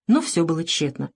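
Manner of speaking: ordinary delivery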